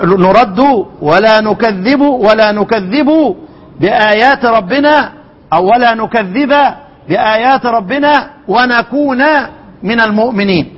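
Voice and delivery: Quranic recitation. Shown as a demonstration. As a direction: stretch each word like a reciter. Recites the verse phrase by phrase.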